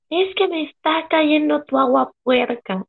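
mock the cranky neighbor drawn out; annoyed neighbor. Neighbor complaining about dirty water, mock whiny old lady. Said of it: "la voz de la vieja pedera".

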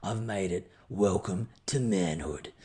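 whispered, slow, in triumph; awed whisper. Real, not acted. Mower finally started, he whispers in awe. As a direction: hush it out like a sacred moment.

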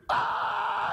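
high mock scream of fright; retold scream. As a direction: shriek it like the wife did. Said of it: "at the top of her lungs".

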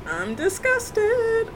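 slow, high, drawn-out disgust; exaggerated disgust. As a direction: drag it out, appalled.

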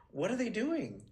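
a tiny star amazed at her fans; Estelle impression. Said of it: "She's like".

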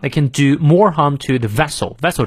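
"vessel" punched on its first syllable; stress on VESSEL. Shown as a demonstration. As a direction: make "vessel" stand out in the phrase. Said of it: "vessel重读".

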